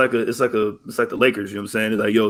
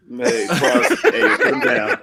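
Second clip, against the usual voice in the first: laughing imitation; 4 semitones higher, much slower than usual.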